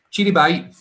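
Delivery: mock cheery goodbye. Mimicking caller's cheerful goodbye.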